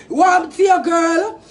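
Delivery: raging at the rival, shouting; angry shout. Real, not acted. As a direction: shout her down. Heated diss rant, shouting.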